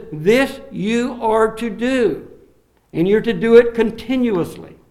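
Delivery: quoting an apostle with authority; apostolic authority. Retold or imitated. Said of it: "He's speaking with apostolic authority".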